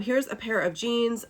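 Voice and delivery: ordinary delivery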